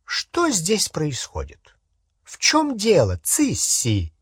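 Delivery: drawn-out, questioning sweep; voiced Bellatrix, suspicious; imperious witch. A narrator's reading. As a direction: demand to know what is going on.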